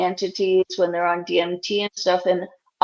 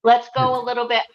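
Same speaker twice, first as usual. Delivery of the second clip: lightly voiced old Jewish lady; nagging like an old Jewish grandma; 2 semitones higher than usual. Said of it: "That was my old lady Jewish voice".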